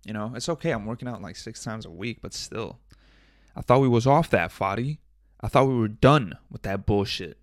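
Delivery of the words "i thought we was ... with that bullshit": louder mock reproach to himself; louder, mock-stern telling-off of himself; self-scolding. Real, not acted. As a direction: scold yourself like a disappointed friend.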